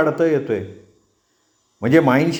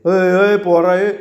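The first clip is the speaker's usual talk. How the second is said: mild shout; 3 semitones higher, 3 dB louder, slower than usual. Acted. Gole shouts at Pratap.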